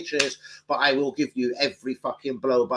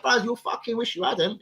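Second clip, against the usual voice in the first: mock Luton lad; 11 semitones higher than usual. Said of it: "I was like".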